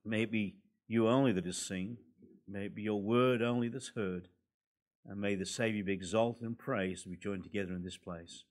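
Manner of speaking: ordinary delivery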